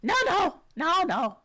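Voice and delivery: high, eager little kobold; high-pitched creature voice. Acted. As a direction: pipe up as an excitable kobold. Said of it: "when you do your kobold voice".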